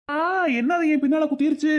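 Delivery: sudden high yelp then startled question; yelp of pain. Acted. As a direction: jump up pricked from behind. Doctor sat on a needle.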